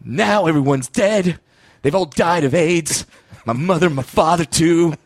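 mock sad musical moment. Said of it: "he just walks forward and goes".

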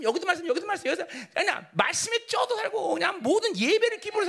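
high-pitched, driving sermon delivery; urgent pulpit exhortation; impassioned preaching. Real, not acted. Preaches with raised intensity.

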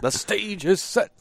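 high, slow, booming announcer line. Retold or imitated. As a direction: announce it like the Street Fighter IV announcer. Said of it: "the booming voice of the vanilla Street Fighter four announcer".

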